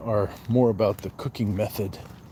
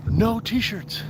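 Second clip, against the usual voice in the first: jumps much higher in playful disbelief; mock disbelief; 11 semitones higher than usual. Streamer answering a viewer about t-shirts, in high mock disbelief. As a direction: squeak it out like you can't believe it.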